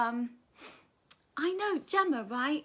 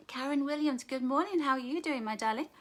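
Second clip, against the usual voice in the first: ordinary talk, nothing marked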